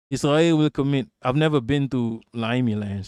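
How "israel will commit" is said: put-on half-hearted British accent; barely attempted British accent. Streamer retrying the comment in a weak British accent. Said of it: "I can't do a Limey accent".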